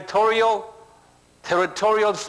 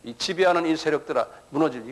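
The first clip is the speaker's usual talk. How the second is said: imitating a forceful rebuking prayer; mock spiritual-warfare prayer; commanding prayer. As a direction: command the spirits to leave, preacher-style. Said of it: "이거 막 기도한다고요".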